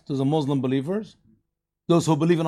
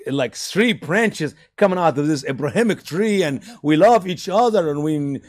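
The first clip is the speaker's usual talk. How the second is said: mock starry-eyed believer; 3 semitones higher than usual. Mocking naive interfaith believer.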